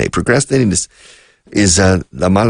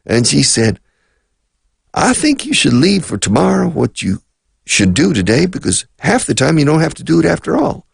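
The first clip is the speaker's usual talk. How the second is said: put-on Southern black accent; 8 semitones higher than usual. Teacher imitates his mother's cleaning lady in a Southern black accent. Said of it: "she talked like this. She had the typical accent".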